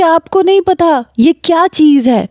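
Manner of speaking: put-on high indignant young woman; indignant daughter. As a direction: protest to her mother. Daughter complains to mother.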